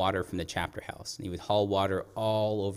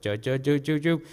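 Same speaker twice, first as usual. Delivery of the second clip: higher, stuttering ju-ju sounds; imitated truck judder; 4 semitones higher, 4 dB louder than usual. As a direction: mimic a truck juddering along. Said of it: "and I said".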